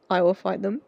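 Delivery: loud, fierce vow; loud and protective. Real, not acted. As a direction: promise to fight them. Protective outburst.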